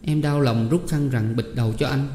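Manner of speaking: lightly voiced pained young woman; distressed Tám Én. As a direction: hush him, then recount with understated hurt. Tám Én hushes, keeps recounting. (giọng cô gái xót xa)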